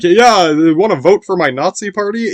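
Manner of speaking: hammed-up pushy party pitch; mock Nazi recruiter.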